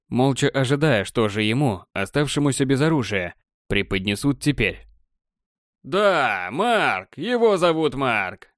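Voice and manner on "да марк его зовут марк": протяжный торжественный выкрик; объявляй имя на весь зал; крик комментатора. Acted. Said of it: "кричал комментатор". (кричит комментатор)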